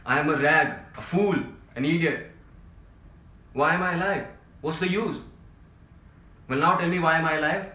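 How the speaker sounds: high, very loud outburst of exasperation; full shouting rant. Acted. Overwrought man crying out to his friend that he's had enough, shouting. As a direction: shout it out, building to a high peak. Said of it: "Don't shout".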